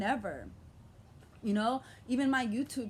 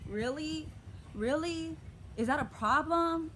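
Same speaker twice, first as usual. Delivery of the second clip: higher, disbelieving really; incredulous; 5 semitones higher, slower than usual. Real, not acted. Answering her mother calling her crazy, higher incredulous questions. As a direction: ask it in outraged disbelief.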